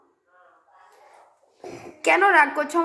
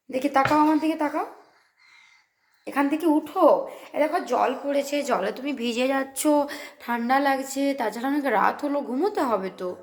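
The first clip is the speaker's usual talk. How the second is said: soft coaxing; 3 semitones lower, 3 dB quieter than usual. Real, not acted. Mother gently urges her daughter to bed, soft and low. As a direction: coax her softly to bed.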